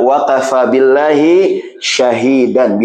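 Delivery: very slow drawn-out recitation; slow chanted Arabic verse; Quranic recitation. Acted. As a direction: intone the verse slowly. Quran verse quoted in sermon.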